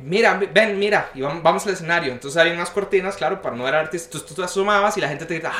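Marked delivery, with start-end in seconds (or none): 0.0-2.1 eager urging. Retold or imitated. Friend urging him onstage in dream.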